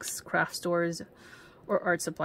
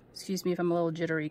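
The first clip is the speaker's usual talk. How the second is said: too much caffeine; much faster than usual. Real, not acted. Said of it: "I've had too much coffee today too".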